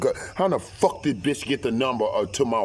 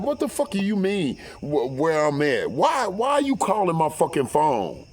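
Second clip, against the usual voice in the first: angry retort; 4 semitones higher than usual. Retold or imitated. Heated retort to mistress.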